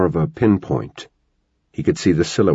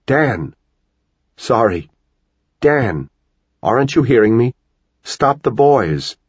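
calling out urgently; 6 semitones higher than usual. A narrator's reading. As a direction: call him to stop the boys. Wife calling urgently to Dan.

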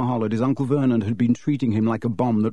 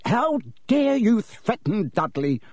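roar; 9 semitones higher than usual. A narrator's reading. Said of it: "roared Uncle Vernon".

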